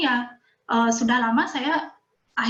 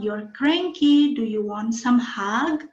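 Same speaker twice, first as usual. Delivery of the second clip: put-on tender child voice; much slower than usual. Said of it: "saya sering bilang sama Lania".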